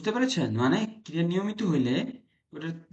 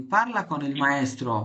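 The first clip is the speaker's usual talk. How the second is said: 1 slow model sentence; much slower than usual. Shown as a demonstration. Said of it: "slow teaching demo".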